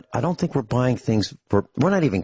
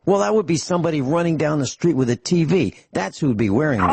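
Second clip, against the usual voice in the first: mocking disbelief; 5 semitones higher, faster than usual. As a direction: ridicule it, then answer yourself briskly. Retold mocking remark in store.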